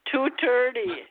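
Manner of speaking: "dirty" said as "turty", in Irish accent. Shown as a demonstration. Host correcting co-host, demonstrating "turty" in an Irish accent. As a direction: repeat it the Irish way, T for the TH in thirty. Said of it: "They'll say it in an Irish accent".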